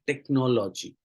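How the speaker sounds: टेक्नोलॉजी stressed on the second syllable नो; टेक्नोलॉजी with the second syllable prominent; correct stress. Shown as a demonstration. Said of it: "जबकि आपको stress देना था second पे".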